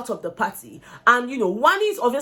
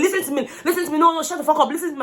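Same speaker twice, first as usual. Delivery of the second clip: repeated insistent demand; 5 semitones higher, faster than usual. Retold or imitated. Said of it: "she's going to keep saying".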